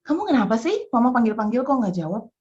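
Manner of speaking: calmer, near-normal pitch questioning; restrained questioning. Retold or imitated. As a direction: ask firmly but held back. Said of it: "saya udah siap-siap mau ngomel".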